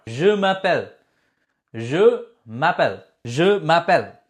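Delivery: je m'appelle as zhuh ma-PEL, falling end; teacher drills je m'appelle for learners; model pronunciation. Shown as a demonstration. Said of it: "Now the most important part".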